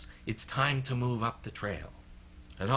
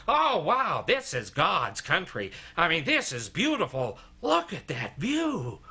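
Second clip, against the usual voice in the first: mock rapture; 3 semitones higher than usual. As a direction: imitate a friend carried away by beauty. Steve exclaims at the summit.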